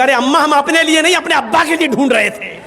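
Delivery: quick, mildly irritated retort; mock-indignant comeback; annoyed young man. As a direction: snap back with a touch of anger. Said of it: "लड़के को भी गुस्सा आया".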